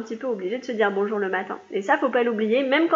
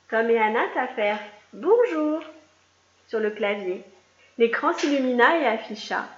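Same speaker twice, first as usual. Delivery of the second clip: lively read-aloud storytelling voice; reading a picture book to young pupils; story narration. A narrator's reading. Teacher reading a story aloud to her class, lively.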